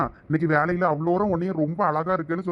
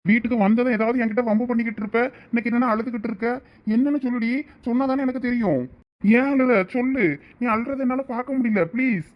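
higher-pitched, concerned coaxing; worried husband, voice raised in pitch; anxious pleading; 5 semitones higher than usual. Acted. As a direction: plead with the crying wife to open up. Husband pleads with crying wife.

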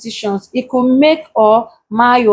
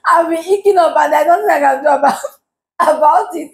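higher, talking through giggles; laughing; 4 semitones higher than usual. Real, not acted. Vlogger excusing hiccups during the video, laughing. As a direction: fight the giggles while explaining. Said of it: "I don't know why I'm laughing".

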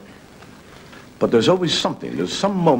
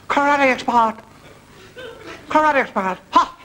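higher mock Japanese accent, "Karate expert" barked as an order with a sharp "ha!"; mock Japanese accent command; 14 semitones higher than usual. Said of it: "there's a Japanese fellow".

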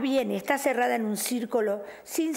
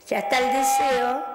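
announcing the wish; 5 dB louder than usual. Shown as a demonstration. Psychic showing the caller what to say, brightly. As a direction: call out the wish is done, a little louder. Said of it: "me decís".

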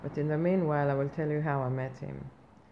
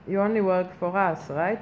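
indignant demand; 3 semitones higher, 6 dB louder than usual. Retold or imitated. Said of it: "I say".

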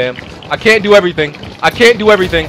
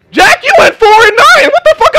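pitched-up mocking accusation; accusing shout; 13 semitones higher than usual. Real, not acted. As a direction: yell the score across the room. Calling out teammate's bad score.

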